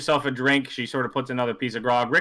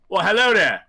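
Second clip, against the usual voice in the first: louder, higher sly welcome; friendly dealer; 6 semitones higher, 4 dB louder than usual. Acted. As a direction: greet the mark with a grin. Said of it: "he turns to you and goes".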